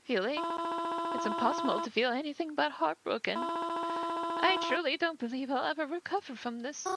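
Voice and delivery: a mother startled at her daughter's funeral; grieving mother. Acted. Grieving mother greets a stranger at the funeral, gently.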